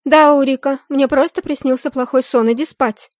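loud, high call through the door. Acted. Heroine calls to maid behind door, loud. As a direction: shout to the maid to go back to sleep. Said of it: "крикнула я девушке".

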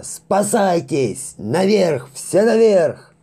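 high, loud, drawn-out panic cries; terrified howling. Acted. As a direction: scream for everyone to flee. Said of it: "в ужасе взвыл кто-то".

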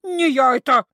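loud squeal of denial; frightened little spirit squeal; squealing creature. A narrator's reading. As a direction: squeal it again. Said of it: "взвизгнула Кикимора".

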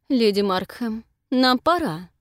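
curt, through gritted teeth. Acted. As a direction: grit your teeth and cut it short. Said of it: "стиснув зубы".

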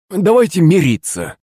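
high, meek plea; pleading servant. A narrator's reading. Servant asks old woman to make up, pleading.

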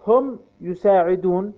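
ordinary delivery

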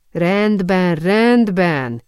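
eye-rolling, mildly impatient give-in. A narrator's reading. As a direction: brush her off with a touch of impatience. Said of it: "forgatta a szemét türelmetlenül a lány". (türelmetlenül, szemforgatva)

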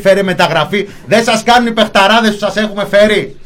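high-pitched parody of demanding supporters; mock fan rant. Football fan demanding transfers and a new coach, mock rant.

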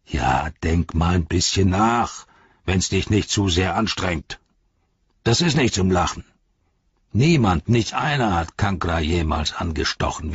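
lightly voiced sneering orc captain; taunting orc.

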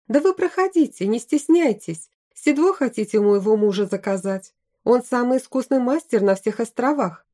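wife proudly praising her husband, mildly voiced. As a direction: proudly invite the guests in. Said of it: "сказала она с гордостью".

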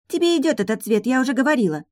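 put-on high, cheeky child's voice. A narrator's reading. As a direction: say it like a bold little girl. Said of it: "нагло произнесла дочь". (нагло, высоким детским голосом)

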